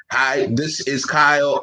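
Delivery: slow, lightly imitated robot greeting. Shown as a demonstration. Imitating an old AI phone greeting, slow robot voice. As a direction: say it slowly like an automated caller. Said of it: "like the robot sound anymore".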